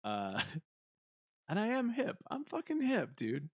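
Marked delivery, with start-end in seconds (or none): 1.5-3.5 raised, playful insistence on being hip; tongue-in-cheek hip brag; mock hip boast. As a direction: pitch it up and insist you're cool. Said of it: "I'm trying to be hip".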